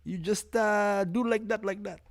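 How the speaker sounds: high, dismissive mock master; hammed-up brush-off from an old-timer; imitating an old master. Mocking elders who dismiss his questions, high and dismissive. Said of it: "They're like".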